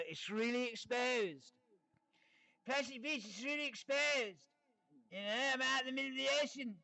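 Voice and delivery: getting carried away, voice climbing high; a bit excited. Real, not acted. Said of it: "I'm a bit excited".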